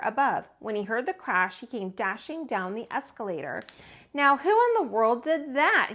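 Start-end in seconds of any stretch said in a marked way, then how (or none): 4.1-5.9 louder, higher gruff watchman; exclaiming. Acted. Watchman hearing the crash, exclaiming. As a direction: call out into the dark store. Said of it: "he exclaimed".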